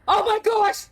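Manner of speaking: high, eager gasps of discovery; excited realization. Real, not acted. Player cracking the mystery, high excited gasps. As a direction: blurt out the revelation.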